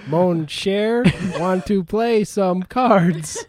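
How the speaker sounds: put-on slow robot with Cajun accent. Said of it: "I like your robot impression".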